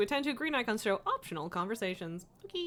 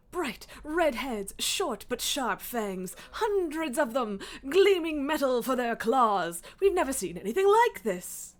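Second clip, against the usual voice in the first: frightened peasant voice. Acted. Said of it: "You love my peasant voice?".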